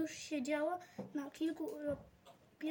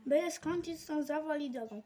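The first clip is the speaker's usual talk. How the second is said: dismissive boss; 5 dB louder than usual. Acted.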